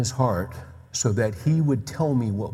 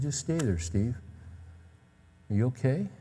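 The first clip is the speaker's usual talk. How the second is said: softly voiced tender father; tender, careful; 5 dB quieter than usual. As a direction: gently check on a hurt son. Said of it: "he was very tender with me".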